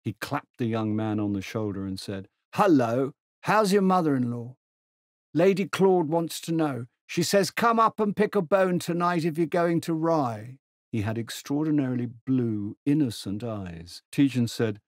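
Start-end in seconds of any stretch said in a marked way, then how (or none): 2.6-10.6 put-on higher, hearty voice of an old general. Old General hails Tegens across the platform, hearty and high. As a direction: boom out a jovial old soldier's greeting.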